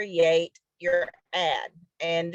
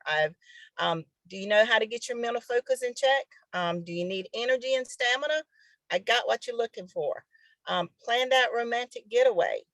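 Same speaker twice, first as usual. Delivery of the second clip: excited ad pitch; 2 semitones higher than usual. Shown as a demonstration. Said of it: "tell them what you're offering".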